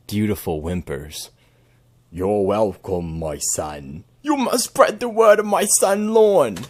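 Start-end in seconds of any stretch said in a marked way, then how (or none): 2.1-6.6 slow, solemn, then rising loud proclamation; mock God voice. As God answering his thanks, a mock divine voice. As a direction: speak as a booming deity granting a blessing.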